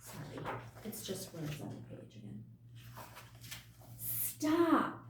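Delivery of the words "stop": sudden high loud cry of stop; commanding shout. A narrator's reading. New voice silencing the arguing creatures with a loud stop. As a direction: cut them all off with a shout. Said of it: "A new voice spoke".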